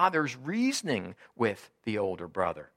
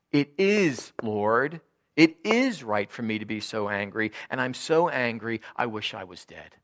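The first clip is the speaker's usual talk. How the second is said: louder, defiant sulking reply; angry retort; 5 dB louder than usual. Acted. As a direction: insist on your anger back at God.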